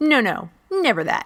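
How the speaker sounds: heavy, knowing sarcasm in a slow drawl. Recapping a play's plot, sarcastic.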